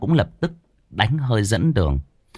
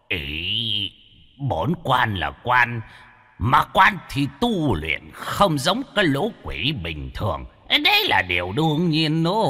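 put-on softer, slow haughty old ghost; arguing back; 4 dB quieter than usual. Ghost arguing back to Đen, soft and haughty. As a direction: insist on your rank. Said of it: "Lão sắc quỷ còn cãi".

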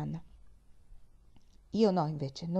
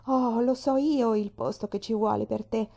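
bursting with a sudden idea; a bright eager exclaim; excited exclamation; 4 semitones higher, 4 dB louder than usual. Acted. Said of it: "esclamò". (esclamazione entusiasta)

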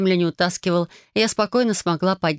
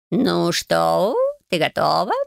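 a hint of the cat voice asking; cat checks she's ready; lightly voiced cat; slower than usual. Cat Bayun asks Marya if she's ready, lightly voiced.

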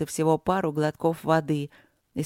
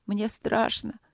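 trembling whisper; 5 semitones higher, slower than usual. Acted. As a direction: whisper it, voice shaking with fear. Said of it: "прошептала она дрожащим голосом".

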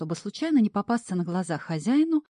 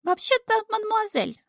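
much higher coquettish falsetto; flirty correction. A narrator's reading. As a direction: correct him with a flirty flutter. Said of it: "стреляя глазками, поправил Шнырь".

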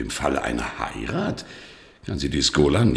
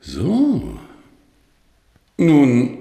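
indignant; 12 semitones higher, 9 dB louder than usual. Acted. Bischof empört, hält sich zurück.

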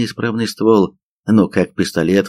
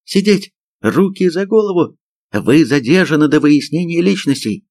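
high-pitched arresting orders; sharp command; 8 semitones higher than usual. A narrator's reading. Sergeant holds men at gunpoint, commanding. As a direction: order them down, voice pitched right up.

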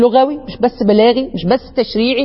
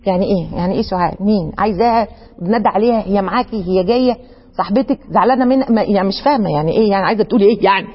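lower, puzzled questions of a confused listener; 6 semitones lower, faster than usual. Pretend. Confused friend questioning a lone word, low and puzzled. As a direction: play the baffled friend asking what she means.

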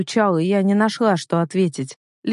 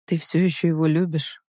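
gentle question. A narrator's reading. Brother asking sister about her love, gently. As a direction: ask her tenderly, without pressing. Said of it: "мягко спросил он после паузы".

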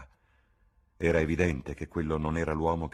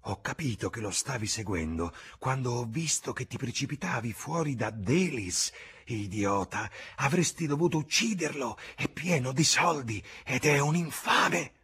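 put-on bitter old woman; 8 semitones higher than usual. A narrator's reading. Bar woman urging James to kill.

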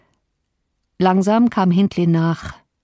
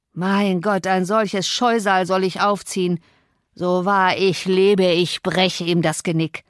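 a lightly voiced drunk father, mocking then menacing; drunken raving father. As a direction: slur and sneer at the child, then threaten. Drunken Hindley raving at child. (betrunkener Vater, höhnisch und drohend)

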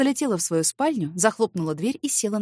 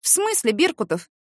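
sudden high surprised question; 5 semitones higher than usual. Acted. Woman surprised by her neighbour, high pitched. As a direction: catch him off guard. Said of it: "удивилась".

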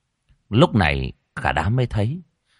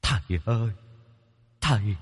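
wailing plea; 8 semitones higher than usual. A narrator's reading. Ghost crawling to the master, begging him tearfully to stop. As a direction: beg for mercy, crying. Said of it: "khóc rống lên".

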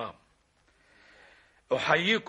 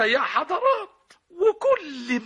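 laughing; 11 semitones higher, 4 dB louder, slower than usual. Acted. Laughing complaint.

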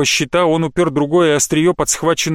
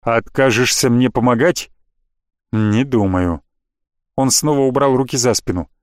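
lower, unhurried villain voice; a sorcerer granting mercy with contempt, low and even; cold necromancer; 5 semitones lower than usual. Acted. Necromancer Leonardo speaks.

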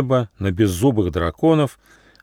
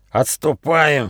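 higher, hurried retreat call; panicked shout; 5 semitones higher, slower than usual. Acted. Sneezing leader orders his pack to flee, panicked. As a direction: sound the retreat in alarm. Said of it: "в панике крикнул вожак".

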